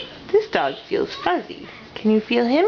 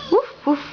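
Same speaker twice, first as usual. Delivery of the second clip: dog bark. Shown as a demonstration. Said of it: "Doggy says".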